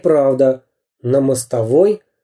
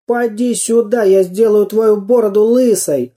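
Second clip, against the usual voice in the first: higher, cheeky threat; taunting toy man; 7 semitones higher than usual. A narrator's reading. Samodelkin taunts the pirate, cheeky higher voice. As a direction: tease the pirate boldly.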